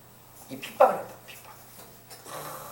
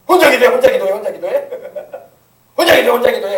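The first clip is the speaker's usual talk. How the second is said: mocking elder taunt; 4 dB louder than usual. Elder mocks loud prayer.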